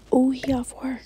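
breathy whisper, almost no voice. Real, not acted. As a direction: whisper it like you are sneaking. Streamer reacting to game scene.

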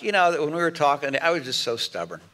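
a gentle, humble apology; sincere apology. Shown as a demonstration. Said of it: "you're gonna say something like".

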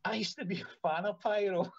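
a hint of an awestruck fan stammering; retold fan's voice. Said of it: "He said".

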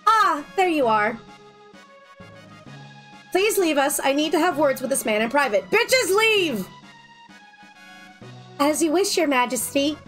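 raspy queen voice; smoker's rasp. Acted. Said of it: "my voice sounds like I've been smoking a pack a day".

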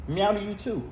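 high meow reply. Real, not acted. Answering the cat's meow.

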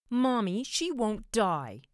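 put-on high, loud yell of a small boy; child yelling. A narrator's reading. Boy of seven to his mother, yelling in complaint. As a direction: yell it to mother, drawing out the last words. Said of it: "he yelled".

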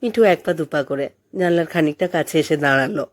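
plain reading voice

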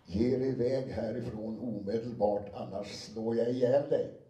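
loud, slow threat; not whispered despite the text. Shown as a demonstration. Reads a whispered threat out loud, slowly. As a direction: narrator reads a whispered line loudly, missing the cue. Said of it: "viskade hon".

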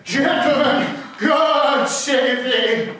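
high, loud, very drawn-out; bow with exaggerated pomp; grand mock greeting.

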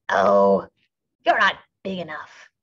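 scornful ladybug. A narrator's reading. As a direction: wave them off with contempt. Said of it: "said the grouchy ladybug".

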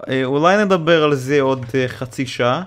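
put-on Hebrew with a Russian accent. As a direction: speak Hebrew like a Russian caller. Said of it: "למה יש לך מבטא רוסי".

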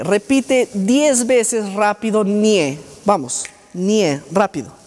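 slow, lightly mocking old-school drill command; mock drill instructor. Teacher mocking an outdated therapy drill, slow and mild. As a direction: parody a therapist pushing rote repetition. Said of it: "Obviamente no le vas a dejar al paciente toda la vida ñe".

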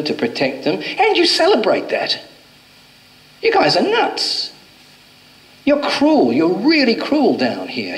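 angry yell. Retold or imitated. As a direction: start level, then climb into an indignant shout at the end. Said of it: "He started to yell at me".

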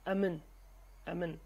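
"amin" said with a leading a, in the Hawleri accent; Hawleri pronunciation. Shown as a demonstration. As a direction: say "amin" the Hawleri way, an added a before min. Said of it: "sometimes they pronounce it like this".

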